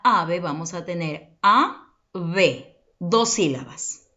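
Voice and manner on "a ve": "A, B" as two separate syllables; split into syllables. Shown as a demonstration. Teacher dividing the word ave for pupils, split into syllables. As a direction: say "A", pause, then "B". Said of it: "separa en sílaba las palabras".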